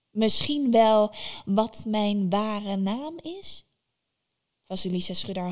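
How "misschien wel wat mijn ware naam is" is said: very slow, rising, louder tease; slow taunting witch. Acted. Baba Yaga slowly dangles her true name before Vasilisa, teasing. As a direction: dangle the secret name, drawn out. Tempting, drawn out.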